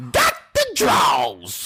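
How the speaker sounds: drawn-out hype shout. Real, not acted. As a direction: shout it like a crowd chant. Hyping up Jason Love.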